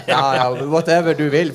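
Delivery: a bored, indifferent shrug of a reply; mock dismissive official; unenthusiastic. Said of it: "Det var ingen entusiasme".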